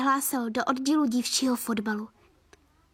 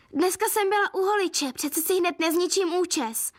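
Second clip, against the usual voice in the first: prissy excuse; 5 semitones higher than usual. Acted. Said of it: "vymlouvala se Elíza".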